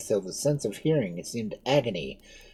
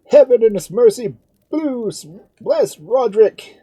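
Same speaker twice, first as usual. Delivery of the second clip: fervent loud cheer; 13 semitones higher, 13 dB louder than usual. Acted. Spaniards cheering Roderick in the street, fervent loud cheer. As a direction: proclaim the blessing as a crowd.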